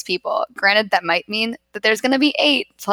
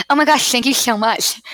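higher-pitched put-on gushing thanks; weird voice; 4 semitones higher than usual. Demonstrating how to scare off a guy at a bar, weird voice. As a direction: put on a weird voice to repel a suitor. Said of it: "do a weird voice".

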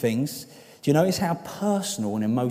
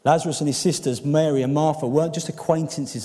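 emphatic preaching; 4 semitones higher, 6 dB louder than usual. Real, not acted.

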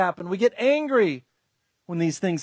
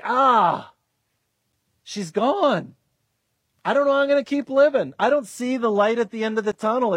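acted despair; 3 semitones higher than usual. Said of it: "It's despair".

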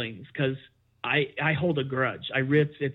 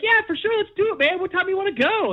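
high, chirpy imitation of a friend; mock eager friend; 14 semitones higher, 4 dB louder, faster than usual. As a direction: mimic his overeager yes. Friend's eager reply mocked.

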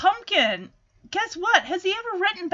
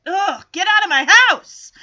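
irritated; 6 dB louder than usual. Retold or imitated. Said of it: "And she's irritated".

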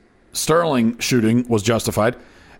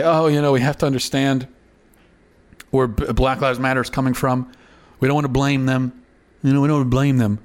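mock nice and friendly. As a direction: parody the gentle, understanding tone. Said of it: "it's very nice and friendly to say".

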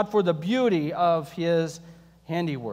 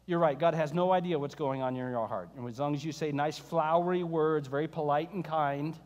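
sarcasm; 2 semitones lower than usual. Acted. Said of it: "That was sarcasm".

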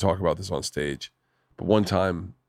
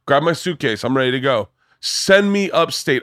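put-on defiant kid; 4 semitones higher than usual. Defiant daughter voiced in story.

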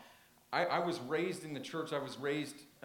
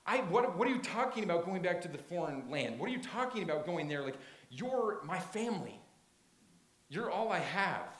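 Ruth protesting; 3 semitones higher, 3 dB louder than usual. Acted. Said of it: "Basically, she's saying".

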